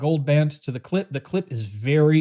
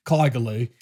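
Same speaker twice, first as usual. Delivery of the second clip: Kaigelu in a light Australian accent; a hint of an Australian accent on Kaigelu; 2 semitones lower than usual. Shown as a demonstration. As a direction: say the brand name the Aussie way. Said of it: "can't hardly say this name without saying it in a, in an Australian accent".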